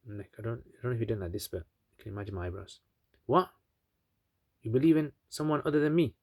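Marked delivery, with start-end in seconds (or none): 3.3-6.1 mildly acted disbelief, pitched up; lightly voiced affronted king; incredulous king. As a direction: ask it higher, as if unable to believe it. King outraged at the boy.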